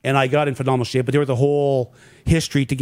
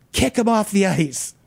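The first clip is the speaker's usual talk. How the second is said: higher, drawn-out mock yell, no real volume; retold yell; 6 semitones higher, slower than usual. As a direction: imitate a boss calling from the stands, slowly. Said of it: "Glenn is yelling from the stands".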